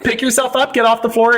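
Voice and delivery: mock him to get up off the floor; teasing, scornful goad; mocking taunt. Real, not acted.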